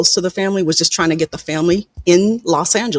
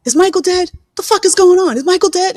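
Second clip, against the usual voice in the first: high-pitched, slightly louder panicked questions; retold frantic disbelief; 13 semitones higher, 4 dB louder than usual. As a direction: imitate a brother desperate to hear it isn't true. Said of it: "and he was so upset".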